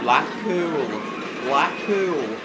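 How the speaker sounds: put-on Lancashire accent. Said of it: "My Lancashire accent?".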